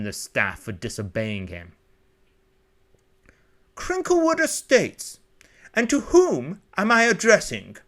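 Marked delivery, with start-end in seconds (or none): 3.7-7.8 high-pitched, elegant upper-class English; upper-class English accent. Acted. Butler answering the intercom, elegant upper-class English accent. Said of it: "An elegant upper-class English accent".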